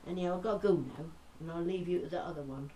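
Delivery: Norfolk storyteller winding down, deadpan punchline; old Mother Miller. Acted. Norfolk gossip signing off to the listeners, chatty and easy. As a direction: finish the yarn in broad Norfolk. A bit more posh than I do.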